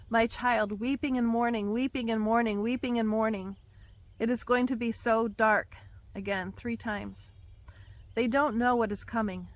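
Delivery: solemn prophetic reading; prophetic proclamation. Acted. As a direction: proclaim it like a prophecy read aloud. Reads God's words aloud.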